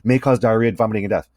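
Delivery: quick drug ad disclaimer read; fast disclaimer. Shown as a demonstration. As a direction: rush through it like a commercial. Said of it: "they'll increase the rate".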